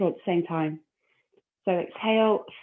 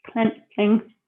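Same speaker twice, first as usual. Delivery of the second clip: louder mock sitcom-mother voice on "clenching"; Miranda Hart's mother; 2 semitones higher, 5 dB louder than usual. Instructor mocking her own way of saying clenching, comic mother impression. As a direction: send up the word "clenching" as a comic mother would. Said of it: "say it like a Mir-, Miranda Hart's mother".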